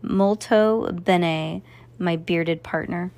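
put-on slow, warm Italian-accented praise. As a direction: savor it with an Italian lilt. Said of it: "Pietro smiled appreciatively".

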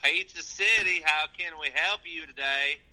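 put-on Southern pizza guy; pizza delivery voice. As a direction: answer the phone as a hick pizza worker. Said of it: "It's my pizza delivery voice".

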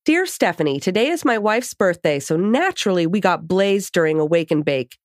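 bright, lively letter reading; reading a letter aloud. Acted. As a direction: read the email out with energy. Reads a listener email aloud.

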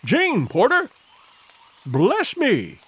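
amazed recognition; astonished cry. A narrator's reading. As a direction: pitch leaping up in amazement. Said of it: "he cried".

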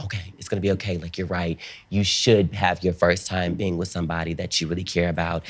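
soft, soothing imitation; quiet, understanding voice; mock reassurance. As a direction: imitate a man gently calming someone down. Retold man reassures the nervous teller.

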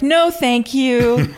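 slow, high, haughty no thank you; mock prim refusal. Host voicing Laura refusing marriage, mock prim refusal. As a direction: turn it down like a scandalized spinster. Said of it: "and was like".

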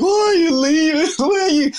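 imitating a sobbing mum, very high pitch; hammed-up high-pitched wailing at a departing child; mock tearful wail. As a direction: wail it like a distraught mum, played for laughs. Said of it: "burst out in tears".

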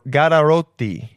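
name said with an Italian accent; lightly Italian-accented surname. Real, not acted. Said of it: "have to say it in an Italian accent".

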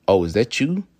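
acted-out impressed question; impressed, approving. Shown as a demonstration. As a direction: ask it like you approve of his girl. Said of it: "Damn, dog, she look good".

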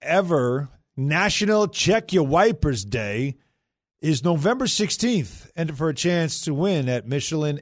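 slow, measured ad read. Acted. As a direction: announce it like a sponsor spot. Reads sponsor ad.

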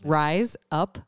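slow Australian accent demo; spaced-out words in an Australian accent. Shown as a demonstration. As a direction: teach the Australian phrase, drawn out. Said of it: "if you wanna sound like you're saying razor blades".

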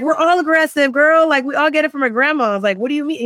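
high-pitched, animated mock defensiveness; joking protest. Telling professor the whole family is aggressive, joking protest. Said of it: "I was, like, joking".

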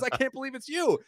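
high, eager fan gushing; excited fan. Retold or imitated. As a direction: play the starstruck fan who can't believe his luck. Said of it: "He goes".

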